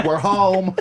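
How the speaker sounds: club comic's punchline, slightly high; Rich Voss. Acted. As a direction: mimic a comic landing his joke. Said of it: "All right, we'll do Voss first".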